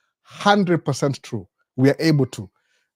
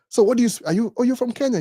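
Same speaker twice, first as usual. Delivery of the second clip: sister-in-law voice; 10 semitones higher than usual. Retold or imitated. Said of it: "alikuwa anauliza".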